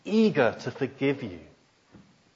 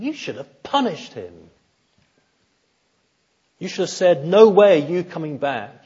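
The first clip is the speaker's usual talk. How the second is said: angry son; 3 semitones higher, 3 dB louder than usual. Retold or imitated. Older son berating his father, resentful and loud. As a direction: pour out the grievance with rising heat. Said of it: "he's angry".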